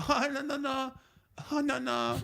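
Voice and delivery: put-on very high, sing-song old lady; happy old lady. Old lady suddenly turning happy to the neighbor, high-pitched mock cheer. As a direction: mimic her sudden cheery brush-off in a high voice. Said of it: "happy face".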